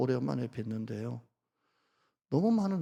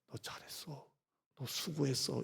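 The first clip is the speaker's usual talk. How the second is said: 아주 작게 속삭이는 다정한 위로; 아들을 토닥이듯 나직이; 다정한 아버지; 10 dB quieter than usual. Retold or imitated. Father's gentle whisper. (영화 속 아버지가 아들에게 속삭이는 위로)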